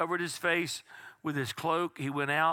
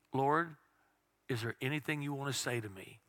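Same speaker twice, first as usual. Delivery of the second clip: soft, lower, hushed ask to God; quiet prayer; 3 semitones lower, 5 dB quieter than usual. Retold or imitated. Preacher retelling his balcony prayer to God, hushed. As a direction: murmur the prayer in stillness. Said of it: "totally quiet".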